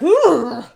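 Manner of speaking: high, loud "ooh" of recoil; shuddering ooh. Retold or imitated. Retold reaction walking in.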